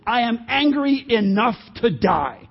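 defiant, drawn-out angry retort; Jonah. Acted. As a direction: answer back emphatically, stretching each word. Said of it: "has the audacity to actually answer back".

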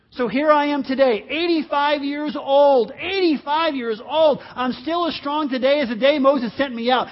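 put-on old warrior boasting, high and loud; the eighty-five-year-old ready for battle; fired-up Caleb. Reads Caleb's words fired up.

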